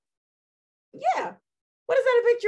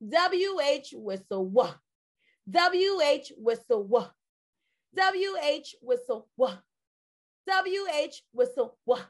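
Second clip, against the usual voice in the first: slow drill. Shown as a demonstration. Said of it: "Letters, picture, sound. Go".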